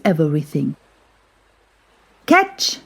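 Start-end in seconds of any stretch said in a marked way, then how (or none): 2.3-2.8 high, bright call across the room. Acted. Seppi calling to Milo during the ball game, a high call. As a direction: toss the word to a friend mid-game. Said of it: "Seppi called".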